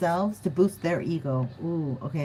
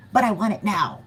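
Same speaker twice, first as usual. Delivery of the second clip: demanding; 4 dB louder than usual. Pretend. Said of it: "And they're like".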